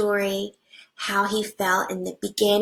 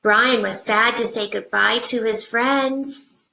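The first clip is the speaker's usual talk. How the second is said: put-on reading to children. Teacher reading a picture book to her class, animated storybook voice.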